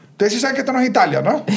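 retold incredulous jibe. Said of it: "era y que".

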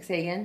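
Sagan said as SAY-gun, questioning; correct pronunciation. Retold or imitated. Retelling her reply to a miscaller, Sagan as SAY-gun. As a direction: ask Sagan with "say" as first syllable. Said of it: "correct pronunciation".

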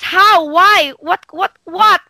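mock questioning client. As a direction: play the doubting client firing questions. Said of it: "And they will ask".

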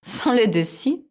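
high, bright little mouse; squeaky mouse voice. Acted.

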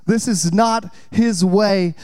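This is not his way, slow and weighty; slow, weighty preacher line; slow emphasis. Real, not acted. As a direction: lean on each word.

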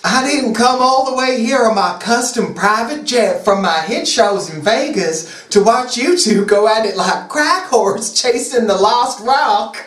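Southern pop-star diva. Acted. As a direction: scold them as a hammed-up Southern diva.

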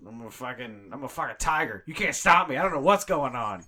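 high, loud unhinged ranting; manic rant. Acted.

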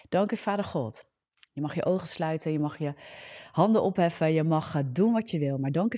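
fervent prayer with rising praise. Acted. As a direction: lift the praise to God with conviction. Praying over listeners.

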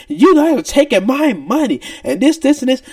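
a hint of the customer hollering; mock screaming customer. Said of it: "screaming and hollering at the top of her lungs".

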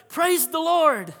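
high, loud, drawn-out holler; retold joyful shout. Lady finding groceries on her doorstep, shouting praise. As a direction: holler it out, stretching the words. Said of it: "she shouted".

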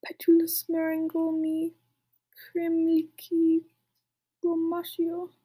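slow, drawn-out incantation; hammed-up spell casting, stretched out; mock screamed spell. A narrator's reading. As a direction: chant the spell word by word. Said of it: "Then he screamed".

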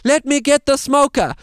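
high, loud put-on beekeeper voice; a sudden hammed-up realisation, pitched high; beekeeper Simon. Simon remembering the smoker, high hammed-up voice. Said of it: "He says".

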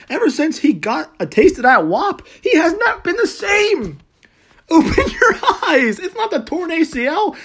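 high, laughing mock shout about Wentz; half-laughing, hammed-up shout; joking rant. Real, not acted. Fan joking to listeners to forget misery, laughing. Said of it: "I'm here trying to be funny".

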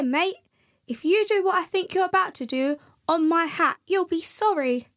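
a hint of a cranky snowman shooing birds; grumpy snowman.

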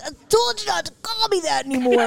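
high, protesting comeback; imagined annoyed Urkel. Pretend. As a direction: play a fed-up sitcom nerd a little. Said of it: "Hey, Urkel".

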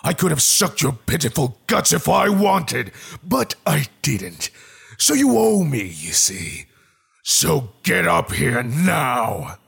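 high, loud menacing monster; unearthly voice. Acted. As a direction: threaten him from the dark. Monster voice threatening.

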